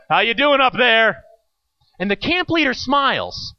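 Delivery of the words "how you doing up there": mild mock yell. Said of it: "I hear Hank yell".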